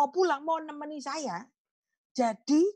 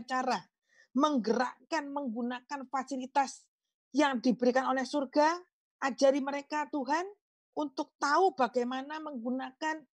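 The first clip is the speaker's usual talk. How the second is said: steady earnest prayer voice. Acted. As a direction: lead the congregation in prayer. Pastor leads closing prayer. (doa penutup yang khidmat dan tenang)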